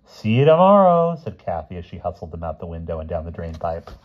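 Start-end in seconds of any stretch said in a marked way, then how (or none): 0.0-1.2 cheery goodbye. Acted. Girl cheerfully leaving.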